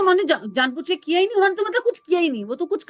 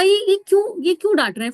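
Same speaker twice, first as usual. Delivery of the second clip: higher, louder startled why; startled thought; 5 semitones higher, 6 dB louder than usual. Retold or imitated. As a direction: jolt of surprise at his scolding. Inner startled thought about vendor.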